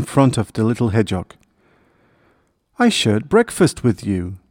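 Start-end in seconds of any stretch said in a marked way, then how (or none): none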